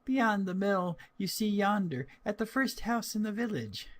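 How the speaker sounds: put-on bright, high girlish answer; cheerful little-girl reply; little girl's voice. A narrator's reading. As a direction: pipe it up like a small child. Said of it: "answered Little Red Riding Hood".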